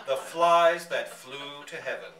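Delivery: laughing through the words, loud; can barely get it out for laughing; gleeful laughing narration. Real, not acted. Narrator laughing at fly-killing memory.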